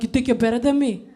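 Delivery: lightly attempted New York accent; a hint of badly faked New York accent. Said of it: "try to do a New York accent".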